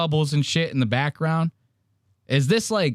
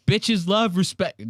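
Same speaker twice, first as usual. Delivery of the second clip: slow corny punchline; 7 semitones higher than usual. Shown as a demonstration. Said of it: "Ain't that the corniest joke?".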